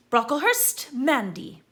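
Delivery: loud, high roll-call announcement; calling out names. A narrator's reading. Professor calling the next pupil loudly to the stool. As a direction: call each name across the hall.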